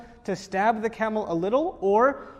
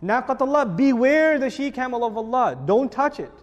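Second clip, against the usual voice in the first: louder, firm warning; stern warning; 2 semitones higher, 4 dB louder than usual. Retold or imitated. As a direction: command them to stay away. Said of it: "If Naqatullah was being said".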